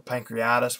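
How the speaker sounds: "pancreatitis" shortened to pan-kree-EYE-tis; alternative pronunciation. Shown as a demonstration. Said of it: "whichever way you say it".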